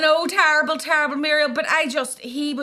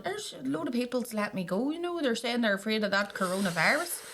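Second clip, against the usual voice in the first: put-on pitiful old man voice; 8 dB quieter than usual. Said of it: "he was going".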